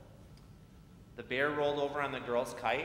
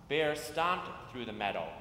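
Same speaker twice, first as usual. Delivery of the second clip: put-on reading to children. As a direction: read it like storytime on the church steps. Reads picture book to children.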